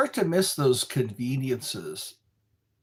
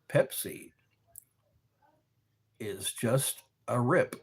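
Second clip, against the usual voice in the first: whisper; 3 semitones lower, 3 dB quieter than usual. Real, not acted. Secret jab at Pepsi.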